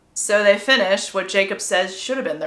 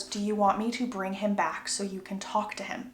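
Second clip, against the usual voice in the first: softer, hushed question; soft-voiced retold offer; gentle offer; 8 dB quieter than usual. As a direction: ask it quietly and carefully. Acts Edward's gentle offer.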